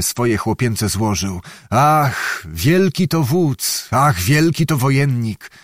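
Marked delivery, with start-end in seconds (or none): 1.7-5.5 slow, rapt admiration on "wielki"; lightly voiced youthful awe, hands clasped; with rapture. Young Aksak admires the prince, mild rapture. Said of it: "mówił z uniesieniem".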